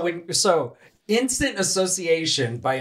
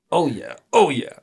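sultry moan; 4 semitones higher, 5 dB louder than usual. Pretend. Mock sultry reply.

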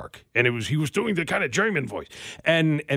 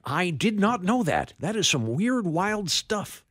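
high, drawn-out talk-show host catchphrase; Johnny Carson; 6 semitones higher, slower than usual. Acted. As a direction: stretch it out like a rough host impression. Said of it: "it was Carson".

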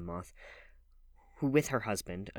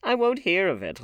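laughing; 11 semitones higher, 10 dB louder than usual. A narrator's reading. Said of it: "laughed Lord Henry".

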